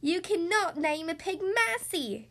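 slow, emphatic storybook shout; mild indignant shout. A narrator's reading. Cross neighbor protests the piglet's name, mild acted shout. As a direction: object firmly, drawing out each word. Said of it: "shouted Eugenia".

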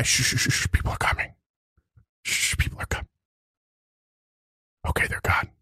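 whispered hush; hissing to stay hidden; dragon whispering. Acted. Dragon whispering while people pass. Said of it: "trying to keep his voice down".

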